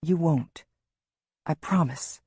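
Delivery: firm. A narrator's reading. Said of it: "Lewis says firmly".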